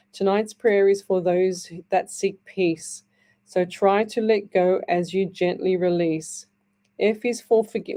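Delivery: slow, gentle read of a prayer poem. Acted. Radio host reading a listener's prayer to the audience, slow and gentle.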